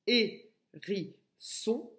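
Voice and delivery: "Hérisson" stretched very slowly, syllable by syllable; teacher slowing the word for kindergarteners; slow syllable demo. Shown as a demonstration. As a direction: drag out "Hérisson" so a child hears each part. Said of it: "et j'enlève la syllabe ri".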